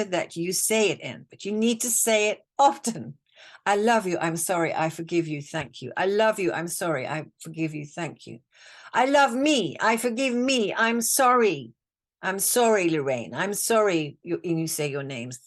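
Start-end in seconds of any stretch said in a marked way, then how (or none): 3.7-8.4 repeated mantra. Shown as a demonstration. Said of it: "repeat this as a mantra". 8.9-14.2 mantra to yourself. Shown as a demonstration. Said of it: "repeat this as a mantra".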